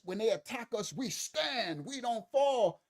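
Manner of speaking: a hint of rallying slogan, pitch climbing; lightly voiced defiant hero; mock heroic speech. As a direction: imitate a hero's rousing declaration. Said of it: "she's gonna look like a hero".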